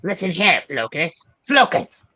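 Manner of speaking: high, loud stern command; mock scolding. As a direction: scold the app like a naughty pet. Scolding the focus app.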